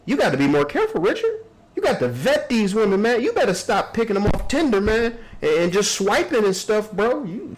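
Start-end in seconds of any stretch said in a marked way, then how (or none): 0.0-4.8 mock crying. Mock tearful advice to Richard.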